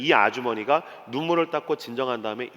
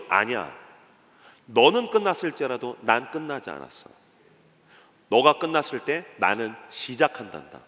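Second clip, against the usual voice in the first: gentle divine reassurance; 2 semitones lower than usual. Acted. Jesus answers a despairing believer, gentle reassurance. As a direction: answer the cry calmly and tenderly.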